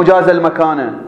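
المكان ending in a short "a" vowel; accusative ending. Shown as a demonstration. Teacher rejecting the object reading, المكان ending in -a. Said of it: "أو المكان هو الذي جاز".

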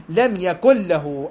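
"يكن له" said as yakul-lahu; slow, melt the n of "يكن" into a doubled l; no n in "يكن", long l into "له"; n merged into lam. Shown as a demonstration. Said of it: "أدغم".

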